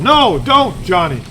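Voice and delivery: high sharp no; a lightly voiced parent scolding; mock scolding parent. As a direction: parent stopping a child, high on no. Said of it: "tell 'em".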